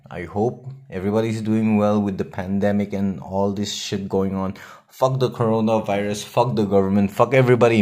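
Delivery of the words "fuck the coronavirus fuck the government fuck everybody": real venting, building louder to the end; fed-up outburst. Real, not acted. Podcaster venting about the pandemic to listeners, fed up. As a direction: curse each one harder, loudest on the last.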